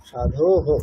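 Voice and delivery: "সাধো হো" echoing the o in a short "হো"; visarga as ho. Shown as a demonstration. Teacher showing visarga after o, "সাধো হো" ending in echoed হো. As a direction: hold "ধো", then add "হো". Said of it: "ওকার থাকলে ওকারই হবে".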